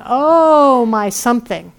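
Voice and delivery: high, loud wailing "Oh" that falls away; hammed-up lament; mock wailing. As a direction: cry it out like a lament. Voicing Ereshkigal's wailing.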